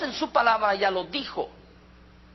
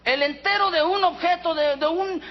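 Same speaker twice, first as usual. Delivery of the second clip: usual speaking voice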